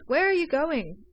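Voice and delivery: high, loud call after him; loud alarmed question; urgent call. A narrator's reading. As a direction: shout to stop him leaving. Calling after him at door.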